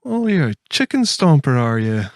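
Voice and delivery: a hint of a mocking villager; mock stomper voice. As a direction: tease like a rough local. Mock Irish chicken stomper banter.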